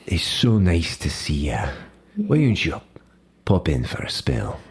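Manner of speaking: a light Scottish lilt, menacing and friendly; the Scotsman welcoming Glade with a hint of threat; Scottish accent. Gangster Scotsman greets Glade in her hab, lightly Scottish. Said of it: "my accent kinda wandered there".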